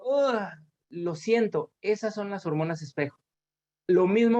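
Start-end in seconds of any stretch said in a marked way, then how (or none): 0.0-0.5 high mock "ugh" of sympathy; imitated wincing groan. Lecturer acts out seeing someone fall hard, wincing groan. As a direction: react as if watching a hard fall. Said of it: "veo que alguien se cae muy fuerte, digo".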